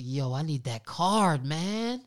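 lightly voiced nephew, drawn-out request; imitating his nephew. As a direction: mimic a nephew pleading for a card. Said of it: "my nephew, like".

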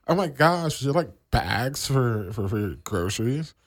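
put-on Valley girl. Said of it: "what if the Valley girl was like the cashier".

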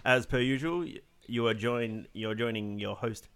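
blocked nose from a cold; congested, sick nasal voice. Real, not acted. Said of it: "if I sound a little bit nasalier".

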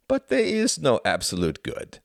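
high, emphatic denial; fervent zealot. Acted. Klaus rejects Tom's morality, fervent. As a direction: deny it with conviction.

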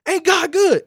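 high, slow urging call; high, drawn-out praise call. Retold or imitated. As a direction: coax him to agree. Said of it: "I started to unction the guy".

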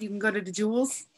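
quick Chicago accent, wide vowels; wide Midwest accent. Shown as a demonstration. Demonstrating the Midwest accent to co-host, wide and lazy. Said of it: "You gotta get it really wide".

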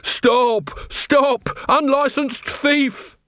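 high-pitched acted cry for help; robbed shopkeeper raising the alarm; calling out. Robbed man calls after thief.

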